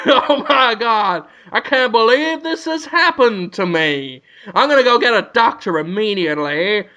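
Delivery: mock worry. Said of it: "That's how worried he is".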